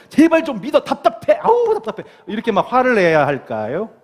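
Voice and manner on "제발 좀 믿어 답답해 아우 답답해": high-pitched exasperated pleading; hammed-up frustration, voice shooting up; mock angry outburst. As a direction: act fed up, pitch climbing sharply. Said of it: "막 화를 내면서".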